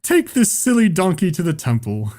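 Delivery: high, jeering theatrical laughter; hammed-up mocking villagers; mock stage villagers. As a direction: laugh and jeer like a cruel crowd. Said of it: "people on stage are like".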